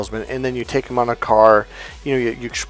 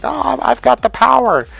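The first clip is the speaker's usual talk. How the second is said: mock smug men; 10 semitones higher, 4 dB louder than usual. Mocking men's belief.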